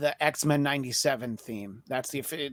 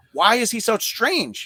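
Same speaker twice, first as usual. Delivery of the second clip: mock spooky voice; 8 semitones higher, 5 dB louder, slower than usual. Mock spooky question about Strange.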